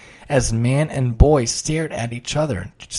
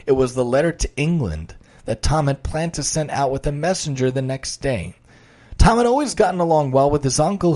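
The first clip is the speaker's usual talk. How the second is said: lively storyteller voice reading aloud; reading a children's story with energy; story narration. A narrator's reading. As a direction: paint the scene for listeners.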